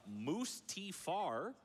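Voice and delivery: "Moose T Far" said slowly, each part split apart; "Moose T Far", slow, with a pause between each syllable. Shown as a demonstration. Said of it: "which I really liked".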